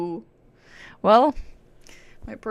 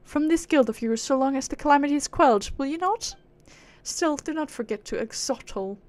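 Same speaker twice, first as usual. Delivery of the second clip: dismissive aristocratic British; lofty British accent, waving off lesser beings; 2 semitones higher than usual. Acted. Proud being dismissing mortals' help, haughty British accent. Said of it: "give her a British accent".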